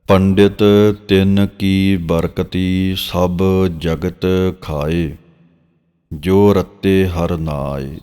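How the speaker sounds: drawn-out, measured reading of sacred verse; slow scripture recitation. Shown as a demonstration. Teacher reciting Gurbani verse for students, slow and measured. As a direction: recite each phrase slowly and reverently.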